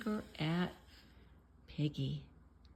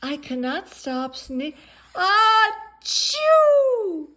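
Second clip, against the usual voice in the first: sneeze interrupting; 11 semitones higher, 11 dB louder, slower than usual. Acted. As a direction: cut off by a very loud high sneeze. Sneeze cuts word.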